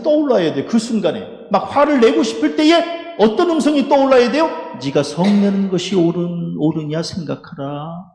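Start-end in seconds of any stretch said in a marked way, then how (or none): 4.8-8.0 slow, measured words, softening at the end; lightly voiced solemn voice of God; God's voice. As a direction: let the admonition sink in slowly. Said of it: "이 하나님의 음성을 들어야".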